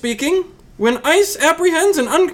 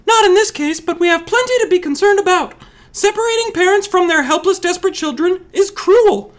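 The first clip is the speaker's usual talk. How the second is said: higher-pitched earnest explaining; raised pitch, earnest argument; 4 semitones higher than usual. Acted. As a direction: keep the voice lifted high. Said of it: "A little bit higher".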